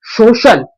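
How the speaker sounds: सोशल said slowly with a clear opening sound; sound demonstration. Shown as a demonstration. Teacher showing pupils the first sound, carefully sounded out. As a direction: sound out सोशल as a model word. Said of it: "sound कैसी है".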